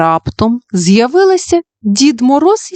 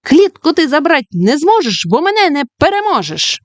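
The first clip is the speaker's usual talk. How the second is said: shout; 7 semitones higher than usual. Acted. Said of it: "закричала".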